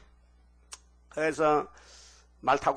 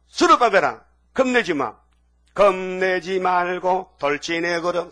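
higher, much louder rallying call; God urging; 4 semitones higher, 7 dB louder, slower than usual. Acted. God loudly urging Zerubbabel not to fear and charge ahead. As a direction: push him forward, slowing at the end.

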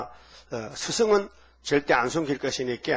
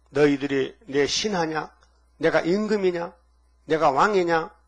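mildly raised scolding voice as God. Retold or imitated. God rebuking the priests, mock stern scolding. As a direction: rebuke them like an offended king, with a lift on the questions. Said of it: "막 야단쳤어요".

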